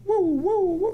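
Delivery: high, gleeful hooting; excited woo. Real, not acted. Host hooting at a stock that keeps showing up. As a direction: cheer the chart on like it's a win.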